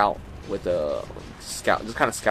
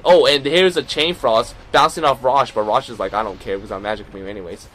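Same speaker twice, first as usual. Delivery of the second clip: play-by-play; 3 dB louder than usual. Acted. Live play-by-play of the match.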